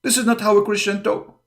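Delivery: high, prissy mimicry of shocked opponents; high mock-scandalized whine; mock offended critic. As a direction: imitate their fake outrage, pitched well up. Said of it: "they say".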